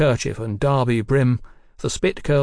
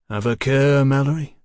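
stern warning; 3 semitones higher, 5 dB louder than usual. A narrator's reading. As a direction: warn him firmly, louder than usual. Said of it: "Fraser warned".

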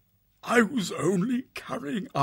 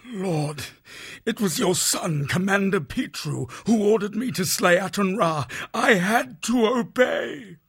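much higher, louder, desperate captive; frightened confession; 7 dB louder than usual. A narrator's reading. Terrified prisoner naming the warlord's son, desperate. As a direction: blurt it out in panic.

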